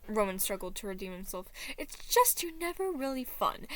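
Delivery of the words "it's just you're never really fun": Roman's voice. Acted. Roman voiced in fan fiction.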